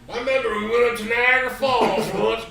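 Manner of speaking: high, loud and laughing; real laughter breaking through. Real, not acted. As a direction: restart it through the giggles.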